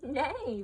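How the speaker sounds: loud playful neigh, falling away; horse neigh. Shown as a demonstration. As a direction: imitate a horse for a toddler. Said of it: "What does the horse say?".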